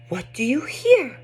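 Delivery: sing-song, rhythmic and playful; animated read-aloud. Shown as a demonstration. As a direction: read it like a nursery chant for a toddler. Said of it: "reading it this way will be very entertaining".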